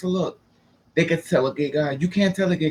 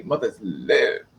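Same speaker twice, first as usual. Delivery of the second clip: camp diva drawl; 6 semitones lower, much slower than usual. Retold or imitated. Flamboyant camp retort.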